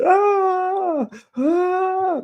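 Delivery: piercing high wordless scream at the top of the lungs. Retold or imitated. Screaming to scare the attacker and save Jerome, piercing shriek. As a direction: shriek "ah, ah" as loud as you can to look crazy. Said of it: "like, I'm screaming".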